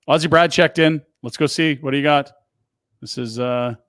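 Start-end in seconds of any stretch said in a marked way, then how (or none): 0.1-2.3 excited intro. Real, not acted. Introducing Ozzie Brad clip.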